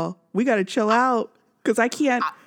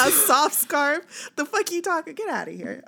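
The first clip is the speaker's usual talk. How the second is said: mock outrage; 5 semitones higher than usual. Real, not acted. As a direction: spell it out like it offends you. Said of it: "I just got mad about that".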